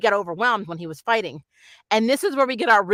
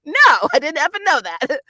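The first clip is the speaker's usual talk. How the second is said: sarcastic reply; 7 semitones higher, 6 dB louder than usual. Retold or imitated. Mocking an imagined reply to Luna.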